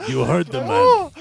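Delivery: laughing. Acted. Laughing guard agrees.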